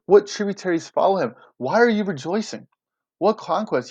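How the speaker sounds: mildly acted indignation; mock anger. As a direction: read it as if he's mad, without shouting. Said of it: "he's saying it angrily".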